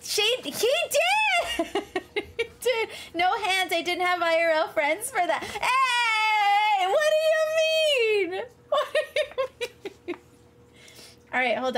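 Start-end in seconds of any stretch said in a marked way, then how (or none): 0.0-2.9 high, slow, laughing shout; laughing exclaim. Real, not acted. 5.4-10.2 laughing protest. Real, not acted. To a teasing viewer, a laughing protest.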